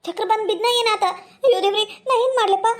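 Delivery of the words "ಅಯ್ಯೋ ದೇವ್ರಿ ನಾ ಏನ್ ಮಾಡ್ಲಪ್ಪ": panicked wail. Acted. Father-in-law collapsed, panic.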